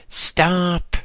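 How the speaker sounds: loud, high call of stop. Acted. Lama calling after the boy in the corridor, loud. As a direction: halt him from down the hall.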